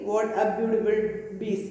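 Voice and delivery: lightly imitated German accent, "piece" as "bees". Shoemaker remarking on leather, mild German accent. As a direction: quote the shoemaker with a hint of German. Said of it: "this is the accent of German".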